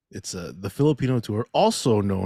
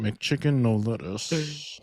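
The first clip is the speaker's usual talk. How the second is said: slow drawn order; much slower than usual. Retold or imitated.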